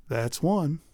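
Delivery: soft muttered aside; quiet self-satisfied mutter. Acted. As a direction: say it under your breath to yourself. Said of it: "Dan walked away muttering".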